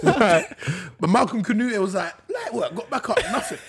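laughing through the story; giggling while telling it. Real, not acted.

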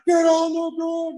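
slow, high, loud command; imitated police yell. Cops taking a passenger down, high drawn-out yell. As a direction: stretch the order into a mock shout. Retold cops ordering him down.

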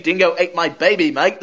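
hammed-up Australian catchphrase voice; mock Australian accent. Podcaster ribbing a miscast Slovenian brother, mock Australian accent. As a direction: put on a broad, joking Australian accent. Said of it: "You're not supposed to be Australian".

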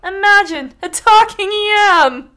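high, loud, slow wonder; the stool gasping in amazement; amazed exclaim. Acted. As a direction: marvel at it aloud.

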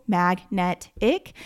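"mag, net, ick" said as three separate beats; syllable by syllable. Shown as a demonstration. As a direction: split the word into its syllables. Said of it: "break it up into their syllables".

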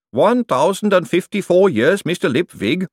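high, loud golem voice in alarm; a huge clay golem, horrified. Acted. Golem Gladys answering.

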